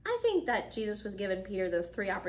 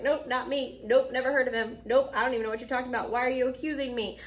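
mock panicked denial; 3 semitones higher, 4 dB louder than usual. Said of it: "He kind of panicked".

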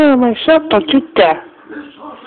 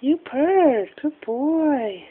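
hushed praise; 3 semitones lower, 10 dB quieter, much slower than usual. Real, not acted. Praising pet bird softly.

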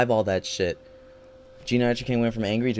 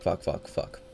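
whispered cursing; 5 semitones lower, 8 dB quieter, slower than usual. Real, not acted. Seething after losing.

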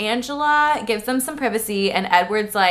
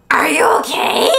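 rough scared voice; 4 semitones higher, 4 dB louder than usual. Retold or imitated. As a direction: voice rough with fear. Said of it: "Oh, my bad".

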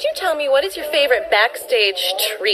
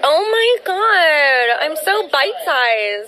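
delighted; 10 semitones higher, much slower than usual. Real, not acted. Reacting to compliment.

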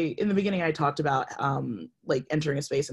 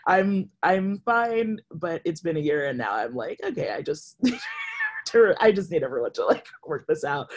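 half-laughing, rising exasperation; 3 semitones higher than usual. Retold or imitated. To the panel about a year of misgendering, laughing exasperation. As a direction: laugh through the frustration. Frustrated laughing self-quote.

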